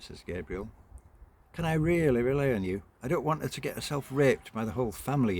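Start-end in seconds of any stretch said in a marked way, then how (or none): 1.5-5.4 anxious mother's voice. Acted.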